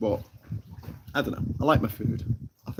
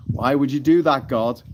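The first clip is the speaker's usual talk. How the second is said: louder, higher plea of disbelief; mock dismay; 3 semitones higher, 5 dB louder than usual. Streamer questions God in a joke, mock dismay. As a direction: ask it in mock exasperation.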